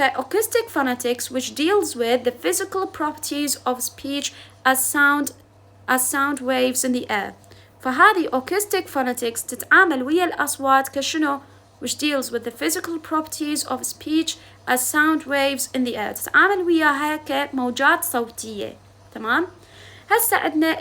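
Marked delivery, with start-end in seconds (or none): 0.0-7.3 slow dictation. Shown as a demonstration. Dictating English definition again. 11.8-16.1 slow dictation. Shown as a demonstration. Dictating English definition again.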